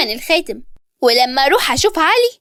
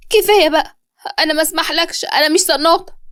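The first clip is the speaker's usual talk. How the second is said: higher-pitched, offended objection; indignant protest; 4 semitones higher than usual. Acted. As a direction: push back, wounded and insistent. Yara protests against his accusation.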